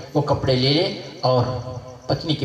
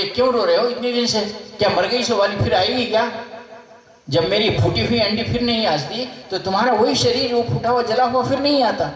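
higher, pointed teasing rebuke; mocking rebuke; 6 semitones higher than usual. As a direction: needle the grieving king, pitched up. Yogi rebukes grieving king. (ऊँचे सुर में ताना मारते हुए)

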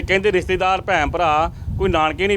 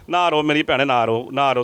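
gently consoling; 4 semitones lower than usual. Real, not acted. Consoles the weeping mother.

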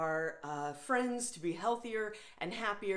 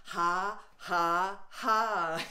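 laughing; much slower than usual. Shown as a demonstration. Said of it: "boom shaka laka laughter".

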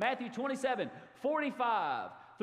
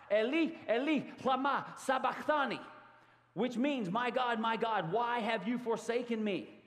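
a higher, louder anguished call of Jesus; agonized cry; 5 semitones higher, 3 dB louder than usual. Acted. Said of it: "cried out with a loud, agonizing voice".

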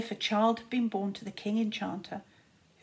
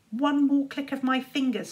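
spat threat; 4 semitones higher than usual. Acted. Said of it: "spat Czar".

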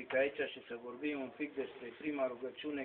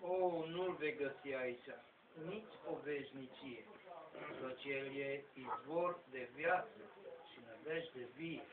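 soft, measured recital of sacred verse; poem recitation; 7 dB quieter than usual. Acted. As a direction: recite devotional verse quietly, pausing after each phrase.

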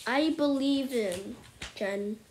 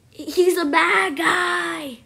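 emphatic; 4 semitones higher, 10 dB louder, slower than usual. Real, not acted. Declaring villain.

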